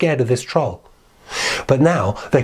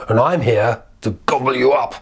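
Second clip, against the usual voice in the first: troll voice. Acted. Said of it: "And the troll said".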